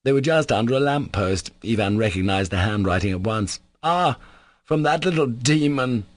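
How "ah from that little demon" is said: scornful exclamation, pitched up; malicious. A narrator's reading. Ivan recognizes the handwriting on the note, malicious. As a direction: spit it out with malicious amusement. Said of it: "He laughed maliciously".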